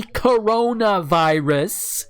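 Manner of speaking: "coronavirus" drawn out slowly for emphasis; emphatic. Real, not acted. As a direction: stretch "coronavirus" out, syllable by syllable. Stressing the word slowly.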